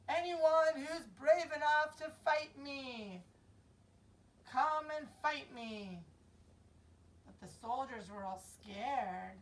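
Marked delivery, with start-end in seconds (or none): 0.1-6.0 louder taunting giant's call; Goliath's challenge. Acted. Goliath taunts the scared soldiers, loud challenge. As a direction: boom out the dare to the army. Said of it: "And he would yell".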